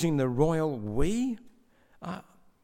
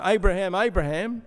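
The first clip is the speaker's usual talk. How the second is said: urgent call; 3 semitones higher, 3 dB louder than usual. A narrator's reading. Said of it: "he repeats the name for emphasis".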